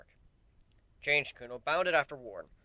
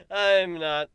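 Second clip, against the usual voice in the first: sly grin; 6 semitones higher, 12 dB louder than usual. A narrator's reading. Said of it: "with a laugh and a sly grin".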